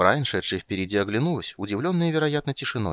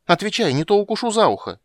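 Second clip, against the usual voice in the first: put-on high, loud childish shout; a little girl yelling a threat; 11 semitones higher, 8 dB louder than usual. A narrator's reading. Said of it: "крикнула она".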